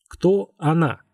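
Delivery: understated irritated questioning; angry question. A narrator's reading. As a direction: ask with a touch of anger. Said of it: "спросил злой Дильс".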